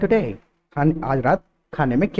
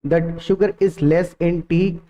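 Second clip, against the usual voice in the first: very slow, word by word, a clumsy translation; slow wrong version; much slower than usual. Shown as a demonstration. Teacher showing the translated mistake to students, very slow. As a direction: lay out the wrong sentence slowly. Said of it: "feeling इसके पीछे ये थी".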